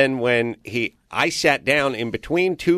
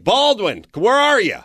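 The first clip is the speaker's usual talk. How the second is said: high-pitched call for a missing player; retold shout, pitched way up; 11 semitones higher, 3 dB louder, slower than usual. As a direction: imitate a manager hollering down the bench. Manager calls for missing player.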